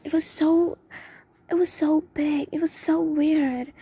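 loud, stretched emphasis on so; disgusted emphasis. Retold or imitated. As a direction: stress how gross and huge it was. Describing the huge centipede.

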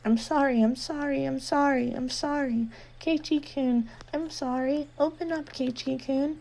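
lightly voiced girl begging at the door; softly apologizing girl. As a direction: apologize endlessly through the door. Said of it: "apologizing profusely".

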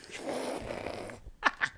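breathy witch cackle; witchy laugh. Real, not acted. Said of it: "Ew, what was that laugh?".

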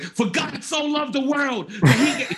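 booming Bible reading, slow and high; loud reading. Retold or imitated. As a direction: proclaim it slowly like a preacher. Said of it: "you're reading really loudly".

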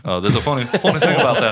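hammed-up impression breaking into laughs; mock Austin Butler drawl. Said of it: "Austin Butler's in this movie".

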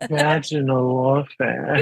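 slow, drawn-out vaginal warfare; sultry perfume-ad tagline; perfume commercial voice. Shown as a demonstration. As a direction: announce vaginal warfare like a luxury scent. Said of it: "perfume commercial".

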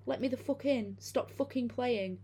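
high, slow, halting inhuman voice; halting, weird voice. Retold or imitated. Creature at the door demanding to be let in, halting eerie high voice. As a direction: mimic a creature that learned to talk, stiff and unnatural. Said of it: "in this halting, weirdly toned voice".

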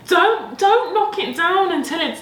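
urgent. Real, not acted. Urgent plea during game.

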